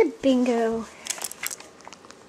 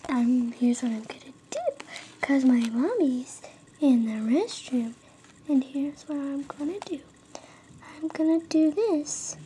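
whispering a sneaky plan; secret whisper; 6 dB quieter than usual. Real, not acted. Kid whispers plan while mommy is in the restroom, secretive whisper. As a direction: hush it so mommy can't hear.

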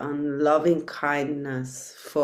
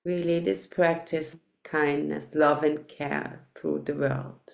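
unhurried guiding voice with long pauses; guided meditation. Real, not acted. Teacher settling meditators into loving-kindness practice, measured guided meditation voice. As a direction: lead them gently inward, phrase by phrase.

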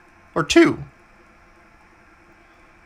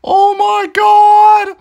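excited; 10 semitones higher, 6 dB louder, much slower than usual. Real, not acted. Reacting to scary game moment.

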